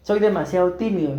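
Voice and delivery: lightly voiced shy self-complaint in his own voice; a hint of his younger self's excuse; imitating his old self. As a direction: say "Soy demasiado tímido" as he used to, plainly resigned. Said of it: "se los voy a decir como yo lo decía".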